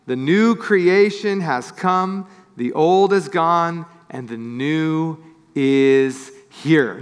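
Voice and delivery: slow, measured scripture reading. Acted. Pastor reading verse to congregation, slow and solemn. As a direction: read the verse slowly and reverently.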